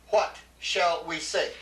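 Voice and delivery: slow, leaning on what; slow read-out quote. Shown as a demonstration. Teacher reading the exercise aloud to the class, slow and deliberate. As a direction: read the English sentence out slowly. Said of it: "you see the English says".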